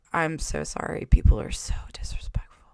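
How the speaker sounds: low, soft grumble; mock muttering manager; grumbled. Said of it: "he grumbled it".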